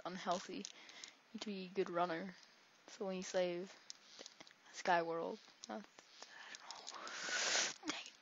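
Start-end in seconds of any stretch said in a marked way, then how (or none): 5.7-8.1 slow, drawn-out whisper. Real, not acted. Gamer whispering to himself mid-match, slow whisper. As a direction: breathe it out slowly. Whispered aside while playing.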